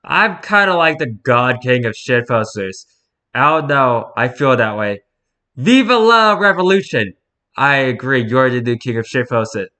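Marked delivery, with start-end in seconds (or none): 5.6-7.1 high, loud revolutionary shout; rallying cry. Acted. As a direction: rouse the crowd with it.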